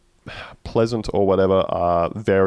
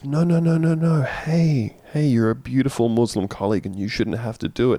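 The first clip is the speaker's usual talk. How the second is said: fussy Cam; 4 semitones higher than usual. Retold or imitated. Cam voiced fussing, pleading.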